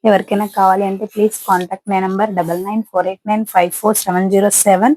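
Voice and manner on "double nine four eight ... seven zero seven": slow dictation. Real, not acted. Saree seller reading her phone number to buyers, slow and deliberate. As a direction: spell out each digit slowly and clearly. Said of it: "dictates phone number to viewers".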